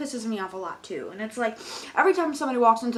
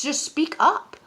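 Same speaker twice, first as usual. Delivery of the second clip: higher, louder plea; exasperated demand; 5 semitones higher, 5 dB louder, slower than usual. Acted. Cashier to mumbling customer, exasperated. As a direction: punch it out at the mumbler.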